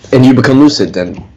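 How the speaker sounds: talking through a sore throat. Real, not acted. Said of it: "I'm sorry, guys, for my sore throat".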